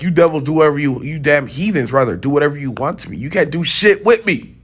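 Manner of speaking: indignant retold defiance, rising in pitch; defiant retort. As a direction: throw it back at the captors, pitch climbing. Retells defying his captors in the dream.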